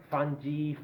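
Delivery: FUNGI said FUN-jee, soft g, ee ending. Shown as a demonstration. Teacher demos fungi as fun-jee. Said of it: "many pronunciations".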